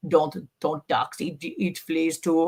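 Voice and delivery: slow, lightly imitated Russian accent; halting, amateurish Russian accent. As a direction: slowly quote the doctor in mock Russian. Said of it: "That was my Arnold Schwarzenegger, Russian Doctor Demetrius".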